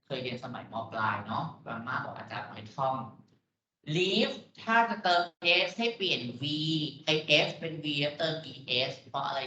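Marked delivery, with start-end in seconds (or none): 4.0-5.2 emphatic quote. Shown as a demonstration. Teacher quoting old rule.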